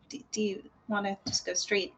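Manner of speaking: hushed sneaky whisper. Acted. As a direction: whisper it so nobody hears.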